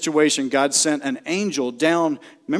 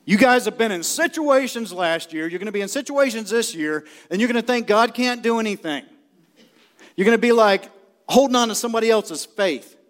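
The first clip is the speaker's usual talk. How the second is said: raised, higher preaching to the congregation; preaching shout; 7 semitones higher than usual. Real, not acted. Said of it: "You wonder why I'm shouting?".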